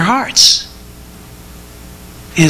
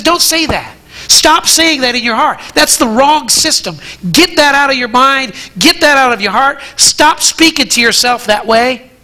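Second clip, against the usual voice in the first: a touch higher, earnest preaching as Paul; lightly voiced Paul; 4 semitones higher than usual. Paul warning believers, in a raised, firm preaching voice. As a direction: rebuke the listener firmly, as Paul. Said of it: "He says".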